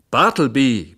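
furious employer roars for his clerk; bellowing the name. A narrator's reading. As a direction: yell it out across the office. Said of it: "brüllte ich".

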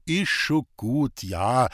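slow, halting words; stammering. A narrator's reading. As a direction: get it out haltingly, caught off guard. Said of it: "stotterte Roman".

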